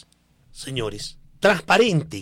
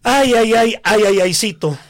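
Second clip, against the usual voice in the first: mock lament; 6 semitones higher, 6 dB louder than usual. Real, not acted. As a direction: wail it in mock dismay, easing off at the end. Mock lament over the job announcement.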